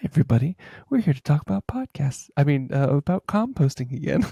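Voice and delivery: put-on, close, really nice ASMR podcast voice. Telling Brandon about a composting podcast host, imitating host's ASMR-style voice. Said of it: "it sounds like she's talking like this".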